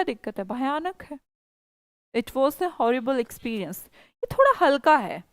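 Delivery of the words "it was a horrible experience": slow model sentence. Shown as a demonstration. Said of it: "teacher repeats the model".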